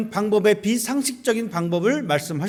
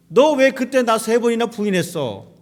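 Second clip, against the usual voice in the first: accusing voice; 4 semitones higher, 5 dB louder than usual. Pretend. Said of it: "추궁의 목소리가 아닙니다".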